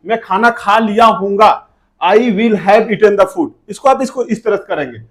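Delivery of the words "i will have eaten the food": very slow, careful English, word by word; slow model sentence. Shown as a demonstration. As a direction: drag it out slowly for the class. (बहुत धीरे-धीरे बोलकर)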